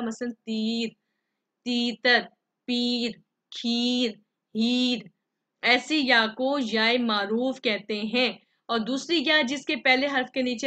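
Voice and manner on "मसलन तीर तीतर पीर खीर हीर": teacher draws out पीर, खीर with a full long ee; long clear ee. Shown as a demonstration. Teacher shows pupils the full ee sound, drawn out. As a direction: stretch the ee in तीर and खीर fully. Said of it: "खूब जाहिर करके पढ़ा जाएगा".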